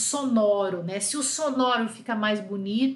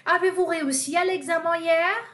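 bright model question; 5 semitones higher, 3 dB louder than usual. Shown as a demonstration. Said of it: "Aqui eu usei a inversão".

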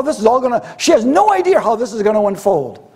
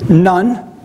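a sassy, rising "None."; attitude; 3 semitones lower than usual. Retold or imitated. Woman answering Jesus defiantly, a mild sassy "None.". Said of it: "You know the attitude?".

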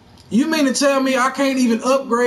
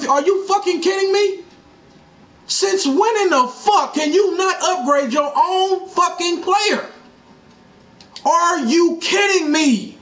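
angry raised rant; 5 semitones higher than usual. Real, not acted. Raging at game menu.

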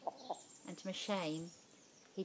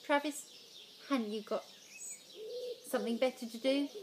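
scoffing; 6 semitones higher than usual. Acted. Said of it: "Marlon scoffed".

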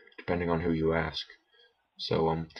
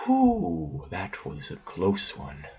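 relieved sigh; much slower than usual. Real, not acted. Relief after near detection.

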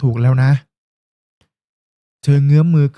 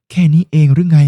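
louder, snapping back in a lovers' tiff; a flare of annoyed anger; angry retort; 5 dB louder than usual. Acted. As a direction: girlfriend snapping at her teasing boyfriend in anger. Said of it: "ทำไมต้องโกรธเป็นฟืนเป็นไฟด้วย".

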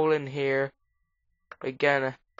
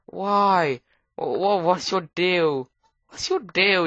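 high, exasperated scolding of a creeper; half-playful exasperated rant at a monster; mock outrage; 5 semitones higher, 3 dB louder than usual. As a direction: demand answers in mock indignation.

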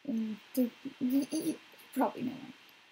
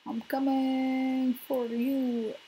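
mock menacing threat; 6 dB louder, much slower than usual. Game threat, slow and loud.

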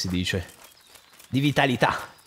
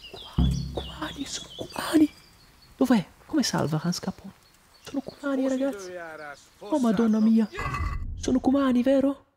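high, soft alarmed murmur; hushed alarm; 9 semitones higher, 3 dB quieter than usual. Real, not acted. Spotting enemies, high hushed alarm. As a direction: breathe it out in worried awe. Fearful at enemy camp.

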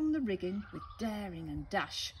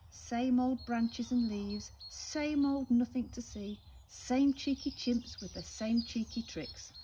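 fed-up parrot; 4 semitones higher, 4 dB louder than usual. Acted. Polly complains about her tree.

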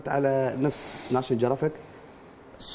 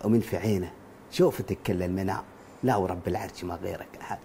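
Sheikh Hamdan reciting poetry; 8 semitones lower, 6 dB quieter than usual. Acted. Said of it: "مثل الشيخ حمدان بن محمد بن راشد".

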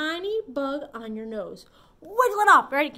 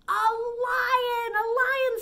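excited; 10 semitones higher, 5 dB louder, much slower than usual. Acted. Excited answer to a kids' riddle.

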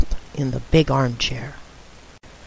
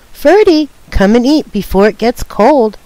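calling out; 4 semitones higher than usual. Acted. Sister calling brother to lunch.

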